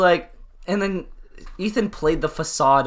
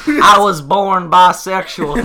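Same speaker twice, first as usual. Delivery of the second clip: laughing retold quote; 3 semitones higher, 6 dB louder, much slower than usual. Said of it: "And he goes".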